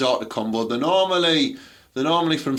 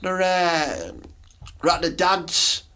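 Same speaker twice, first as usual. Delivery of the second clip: higher mocking mum voice; 6 semitones higher than usual. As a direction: ham up a mum who must get home.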